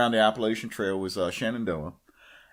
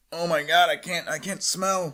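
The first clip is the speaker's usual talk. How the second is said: acted stuffed-up nose, higher pitch; congested wake-up voice; 4 semitones higher than usual. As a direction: complain like you just woke up all blocked up. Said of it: "speaking of nasal congestion".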